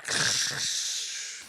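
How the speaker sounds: long noisy ripping sound with the mouth; voiceless crashing rip; imitated curtain tearing. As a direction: mimic fabric being pulled down. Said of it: "and you hear".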